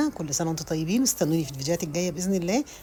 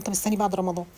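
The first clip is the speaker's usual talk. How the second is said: ordinary talk, nothing marked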